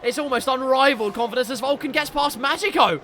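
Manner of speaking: animated live motor racing commentary; race play-by-play. Real, not acted. Race caller narrating an overtake to viewers, animated play-by-play. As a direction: call the racing moves as they happen.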